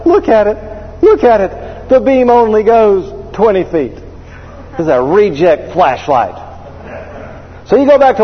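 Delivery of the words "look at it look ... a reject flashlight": higher, whining over the flashlight; hammed-up distraught complaint. Husband wailing to his wife about the flashlight, mock distraught. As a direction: play the wounded customer, hammed up.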